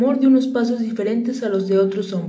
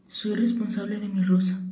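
quiet repeating; 5 dB quieter than usual. Acted. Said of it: "repitió el principito para recordarlo".

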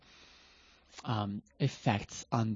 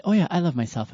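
breezy, higher and louder brush-off; shrugging it off as an afterthought, higher and louder; offhand afterthought; 7 semitones higher, 7 dB louder, faster than usual. Retold or imitated. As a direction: toss it off like it doesn't matter. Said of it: "as an afterthought".

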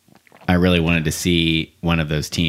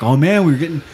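mock enthusiasm; 7 semitones higher than usual. Bored fan at extra innings.

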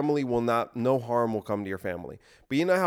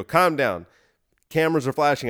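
firm raised voice; 4 semitones higher, 5 dB louder than usual. Pretend. Calming panicking press room.

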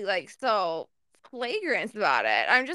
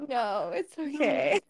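sleepy; slower than usual. Real, not acted. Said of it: "you sound so sleepy".

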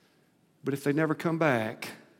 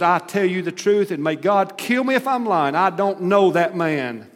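cursing oath; 4 semitones higher, 4 dB louder than usual. Acted. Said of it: "With curses and with an oath".

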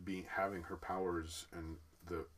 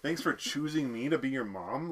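baffled mock quote; 6 semitones higher, 9 dB louder than usual. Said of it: "the crazy line".

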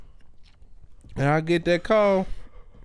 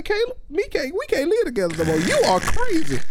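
raised-pitch exasperated telling-off; mock breakup speech; 11 semitones higher than usual. Friend tells Caleb they can't live together, in a higher, exasperated voice. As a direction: play it as a fed-up roommate moving out. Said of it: "I'ma say".

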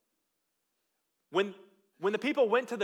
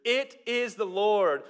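awed realization; 3 semitones higher, 3 dB louder, much slower than usual. Acted. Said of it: "therefore said to Peter".

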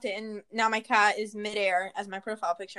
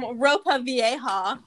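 put-on slow American-accent Spanish on "ropa vieja"; gringo accent; much slower than usual. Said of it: "I love saying stuff like that".

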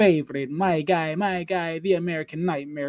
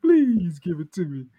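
playful begging; 2 semitones higher than usual. Pretend. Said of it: "look at me begging".

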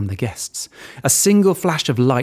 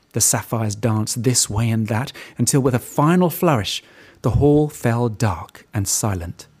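plain reading voice

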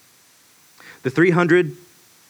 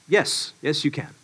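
soft fatherly yes; 5 dB quieter than usual. Retold or imitated. Father answers softly.

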